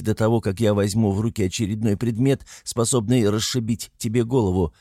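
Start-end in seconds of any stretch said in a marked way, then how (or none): none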